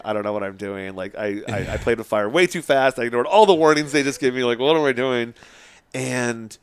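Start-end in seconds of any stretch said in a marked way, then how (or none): 0.0-5.3 retold panic, building louder; mock-frantic self-reproach, rising in volume; freaking out. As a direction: replay your own mild panic, getting more forceful. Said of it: "I'm, like, freaking out".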